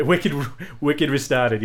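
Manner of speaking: slow, drawn-out dropped-R regional accent. Shown as a demonstration. Trading regional slang with a colleague, in a dropped-R accent. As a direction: drop the Rs and draw out the slang accent. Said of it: "They, they dropped the".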